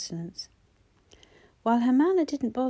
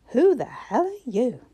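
hostile whisper; 4 semitones higher, 7 dB louder than usual. A narrator's reading. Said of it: "looked at Jonah with breathtaking hostility".

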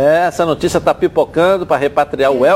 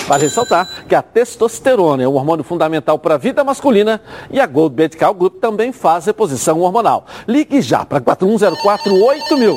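upbeat commercial read; 3 semitones higher than usual. Acted. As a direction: sell it like a radio spot. Host reads sponsor ad.

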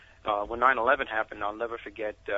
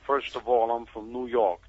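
lightly imitated brash New Yorker; emphatic no-nonsense New York comeback, lightly acted; New York attitude; 3 dB louder than usual. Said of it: "in a typical New York attitude".

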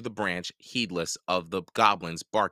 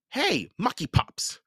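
much higher goblin call; goblin shout; 14 semitones higher than usual. A narrator's reading. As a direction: jeer at the goblins. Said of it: "Jared heard Hogsquill shout".

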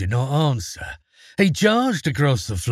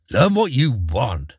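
snapping. Acted. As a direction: bite it off coldly. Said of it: "snapped his father".

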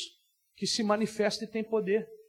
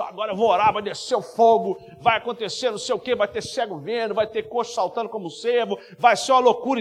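hyped-up prayer; 3 dB louder than usual. Retold or imitated. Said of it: "Aí começa".

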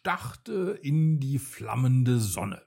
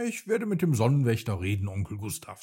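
brave; 2 semitones lower, much faster than usual. Acted. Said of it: "sagte er mutig".

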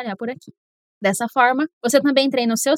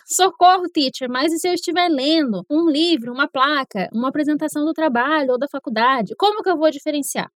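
imagined panicked student. Retold or imitated. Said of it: "você pode tá pensando".

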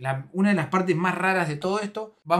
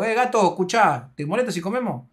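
raised, louder mock challenge; imitated annoyed rebuff; 4 semitones higher, 5 dB louder than usual. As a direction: tell off the intruder mid-meal. Repeats the friend's rebuff. (imitando a un amigo fastidiado)

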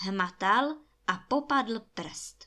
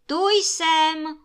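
loud, high, held-out call; strong-voiced call; 7 semitones higher, 8 dB louder than usual. A narrator's reading. Ring answers the giant, strong high calling voice. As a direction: sing out loudly on a high pitch. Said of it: "volal prsten silným hlasem".

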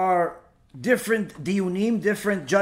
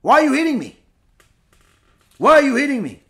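raised, higher plea of a hit donkey; lightly voiced donkey crying out why; a mild, higher complaint from the beaten donkey; donkey's plea; 4 semitones higher, 5 dB louder, faster than usual. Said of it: "the donkey talks".

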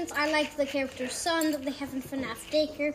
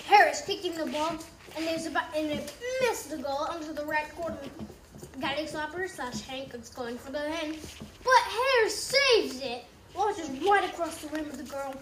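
game announcer; 4 dB quieter than usual. Pretend. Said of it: "I'll be the game announcer for you guys".

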